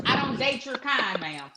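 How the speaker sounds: put-on slow, drawn-out country accent; put-on country twang, words stretched. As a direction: lay on a country drawl. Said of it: "put on my country voice".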